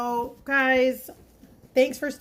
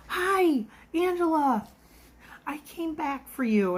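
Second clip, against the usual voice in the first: higher, bright hello; delighted to see her again; returning customer happily greeting her waitress; mock excited greeting; 7 semitones higher, slower than usual.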